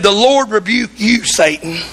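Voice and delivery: a half-sung, solemn rebuke of Satan. Retold or imitated. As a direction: intone it like a holy command, lightly sung. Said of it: "He said".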